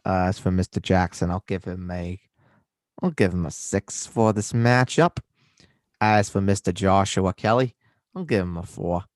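put-on mixed American accent; muddled regional accent. Rating running backs for co-host, mixed accent. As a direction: rate players in a hammy regional accent. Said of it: "tell where your accent's from anymore".

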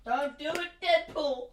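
high, playful cry of protest; mock plea. Friends joking about a spanking, high mock plea. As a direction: call out in pretend alarm, pitched well up.

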